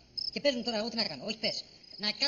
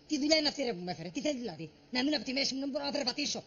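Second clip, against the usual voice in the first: raised, aggrieved ranting; exasperated complaint; 4 semitones higher, 4 dB louder than usual. Acted. Worker griping to his mate about the job, exasperated. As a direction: complain loudly about being worked too hard.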